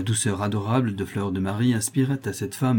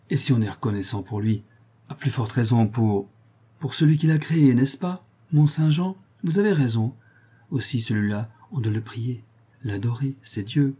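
lightly raised, fervent humble prisoner; a hint of a rough, devoted prisoner; voiced prisoner woman; 3 semitones higher, 3 dB louder than usual. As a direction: pour out thanks to your benefactress. Prisoner explains her idea.

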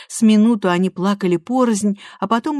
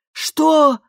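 shocked mother cries out, higher and louder; mother shocked at her daughter's new name, crying out; 10 semitones higher, 7 dB louder than usual. A narrator's reading. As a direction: gasp it out in disbelief. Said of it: "вскричала миссис Майлз".

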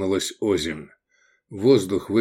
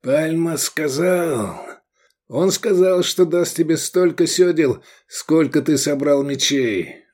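halting high start, then louder; forced-out words; 6 semitones higher, 3 dB louder than usual. A narrator's reading. Shocked envoy delivers the message after the killing, forcing it out. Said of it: "выдавил".

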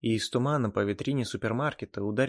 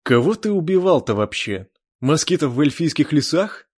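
loud, higher taunting; loud mockery; 5 semitones higher, 8 dB louder than usual. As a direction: jeer at him. Chan mocking the elf.

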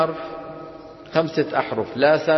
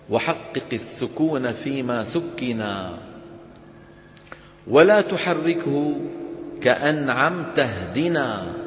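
slow, measured chant of a didactic poem; verse recitation; slower than usual. Acted. Teacher reads the poem to students, slow chanted recitation. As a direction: recite the verse slowly, drawing out the endings.

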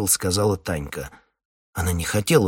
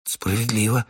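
squeak; 2 semitones higher than usual. Acted. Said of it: "пискнул Прошка".

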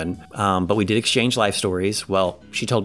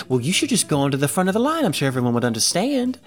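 higher-pitched Southern woman, imitated; Southern accent; 6 semitones higher, faster than usual. Woman urges him to skip the line, Southern accent. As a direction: put on a Southern lady's voice. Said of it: "in a Southern accent".

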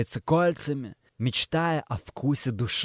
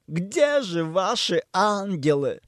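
sad; 3 semitones higher, slower than usual. A narrator's reading. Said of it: "Печально спрашиваю я".

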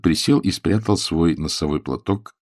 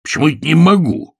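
indignant outburst, a little louder; father indignant at his daughter; 8 semitones higher, 5 dB louder, faster than usual. Acted. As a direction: bristle with indignation. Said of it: "возмутился мистер Беннет".

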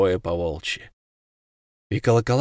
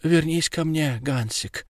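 delirious pleading; 5 semitones higher than usual. A narrator's reading. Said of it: "твердила".

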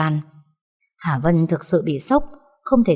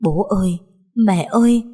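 mild cry out; 3 semitones higher than usual. Acted. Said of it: "gào to hai tiếng".

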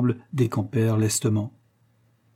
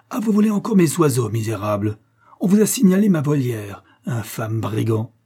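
beside himself; 4 dB louder than usual. Acted. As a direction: rage at them, pitch leaping up then falling. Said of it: "répéta le gentilhomme hors de lui".

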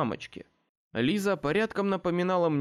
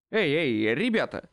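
cutting in. A narrator's reading. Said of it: "встрял в разговор я".

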